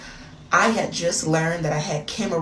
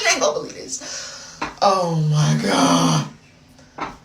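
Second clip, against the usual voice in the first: usual speaking voice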